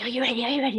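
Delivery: a touch of excited build-up; hyping up the dog. Shown as a demonstration. Owner hyping dog before game, mildly excited. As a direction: rev the dog up, lightly. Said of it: "you get them all excited".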